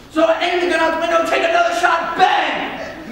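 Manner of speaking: fast, loud and high, building to a bang; acted frantic outburst; worked-up retelling. Acts out firing at car thief.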